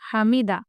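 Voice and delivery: हामिदा said cleanly, short and even; correct pronunciation. Shown as a demonstration. Teacher giving pupils the correct हामिदा. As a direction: say हामिदा crisply the right way. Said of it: "सही pronunciation कैसे करना है".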